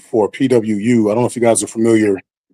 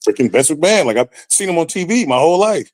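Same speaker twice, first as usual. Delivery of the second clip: starstruck disbelief, pitch climbing; retold hyperventilating awe; 5 semitones higher than usual. Rookie who just met the boss, mock hyperventilating. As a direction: replay the breathless amazement without real panting. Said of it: "now I'm hyperventilating".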